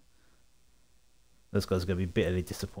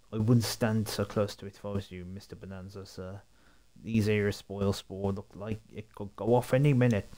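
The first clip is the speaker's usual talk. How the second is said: put-on light Somerset accent; a hint of rural Somerset. Voicing a farmhand warning Bonanza, light Somerset accent. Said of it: "a Somerset accent".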